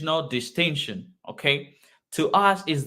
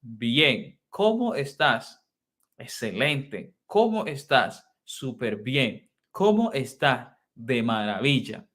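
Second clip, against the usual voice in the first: dialogue demo. Shown as a demonstration. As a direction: play both sides of a greeting. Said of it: "All right".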